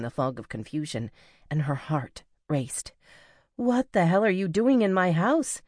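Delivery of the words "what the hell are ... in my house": high, loud frightened demand. A narrator's reading. Sierra demanding the stranger explain himself. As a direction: try to sound menacing while scared. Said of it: "she demanded".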